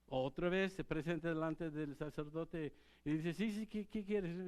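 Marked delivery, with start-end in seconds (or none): 3.3-4.4 put-on higher, eager young voice; a sleepy boy rushing in to ask; lightly voiced boy Samuel, eager. Boy Samuel answering again.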